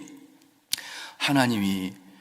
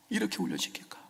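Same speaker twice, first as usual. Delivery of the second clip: whispered echo; 7 semitones higher, 10 dB quieter, faster than usual. Shown as a demonstration. Preacher echoing his question in a whisper. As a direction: repeat it under your breath.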